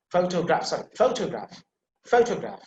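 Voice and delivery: PHO-tograph, opening sound carries the emphasis; stress on PHO. Shown as a demonstration. Teacher repeating the first example for students, stress on PHO. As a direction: hit the first syllable of photograph, PHO. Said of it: "you see pho, that is the emphasis there".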